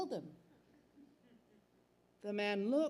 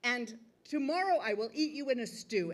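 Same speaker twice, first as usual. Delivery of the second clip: contemptuous threat; 4 semitones higher than usual. Acted. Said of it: "He said".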